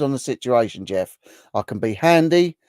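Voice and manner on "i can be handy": bright, higher and louder, all innocence; innocent handy. Pretend. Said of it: "he was handy or handsy?".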